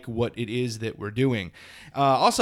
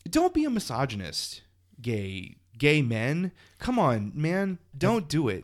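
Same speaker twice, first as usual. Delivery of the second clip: wired on coffee; 3 semitones higher than usual. Real, not acted. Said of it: "I'm a little wired now".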